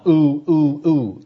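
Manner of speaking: "oo, oo, oo" sung out as a pure repeated vowel; vowel demo. Shown as a demonstration. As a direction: hold each "oo" to show the assonance. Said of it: "You can hear the same sound".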